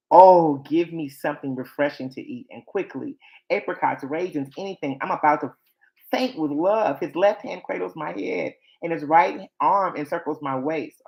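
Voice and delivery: lightly acted lovesick bride, lively rises and falls; dramatic scripture reading. Bride begging refreshment as she faints with love, lightly dramatized reading. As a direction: read it as a swooning lover, understated.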